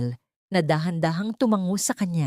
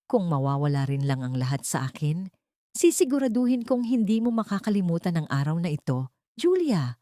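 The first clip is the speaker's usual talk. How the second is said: desperate shout. Acted. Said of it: "Sigaw ni Sarah".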